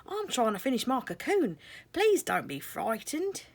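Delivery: high, gentle caterpillar voice; a friendly creature, voiced up high; sleepy caterpillar voice. Caterpillar character voice.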